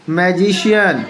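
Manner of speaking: "मैजिशियन" with the C said as a clear sh. Shown as a demonstration. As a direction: model "मैजिशियन" carefully, sh before the final -yan. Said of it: "सी का उच्चारण श होता है". ("मैजिशियन" में सी का उच्चारण श)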